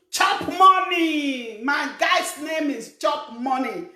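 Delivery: slow, drawn-out boastful yell; mock drunken shout. Idle brother at the bar shouting his nickname, slow boastful yell. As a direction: bellow it like a show-off at the bar. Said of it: "You start shouting".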